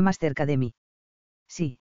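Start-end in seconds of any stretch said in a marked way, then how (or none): 1.5-1.8 quiet, slow, reluctant yes; lying yes. A narrator's reading. Lover hiding his pain from Heidi, a slow hollow lie.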